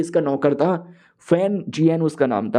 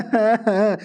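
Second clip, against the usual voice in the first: short scoffing laugh in character; mocking laugh; 3 semitones higher than usual. Gloating rival to the hero, mocking laugh. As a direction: give a brief taunting laugh.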